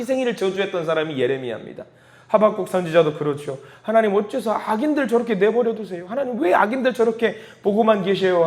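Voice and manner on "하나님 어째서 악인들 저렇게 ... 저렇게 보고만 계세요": higher-pitched, mildly pleading questions to God; lamenting plea. Acted. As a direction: put a touch of protest into the prayer. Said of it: "하나님께 탄식하는 마음으로". (탄식하듯 살짝 높여 하소연하는 말투)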